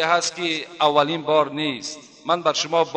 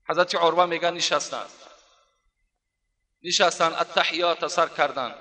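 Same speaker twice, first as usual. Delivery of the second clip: usual speaking voice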